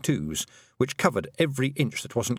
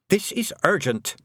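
snapped; 9 semitones higher than usual. A narrator's reading. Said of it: "snapped Tiffany".

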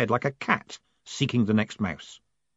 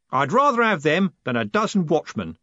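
a lightly voiced happy coachman; happily; 6 semitones higher than usual. A narrator's reading. Jim happily praising his guards, mild cheer. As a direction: say it pleased. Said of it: "said Jim happily".

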